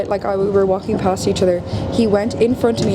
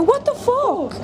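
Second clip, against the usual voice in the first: 1 retold startled swear; much slower than usual. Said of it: "I just go".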